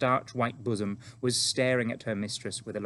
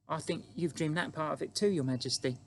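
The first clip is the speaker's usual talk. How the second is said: put-on calm, higher-pitched child voice; composed little girl; 6 semitones higher than usual. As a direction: tell the Queen calmly, in a light high voice. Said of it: "Sophie said calmly".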